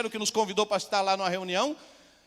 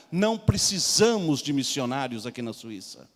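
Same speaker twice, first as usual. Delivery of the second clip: low, slow scornful policeman voice; mocking policeman; 9 semitones lower than usual. Swiss policeman laughs at the missionary, low and slow. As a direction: sneer it down at him slowly.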